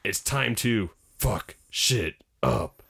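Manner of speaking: slow, deliberate mock menace; grim rabbit resolve. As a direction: spell out the threat word by word. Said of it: "with the shaky face".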